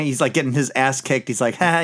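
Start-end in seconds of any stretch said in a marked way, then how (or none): 1.5-1.8 mock laugh while being beaten; lightly performed fake laugh; imitated laughing. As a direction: act out a taunting "ha, ha, ha". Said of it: "He's laughing the whole time".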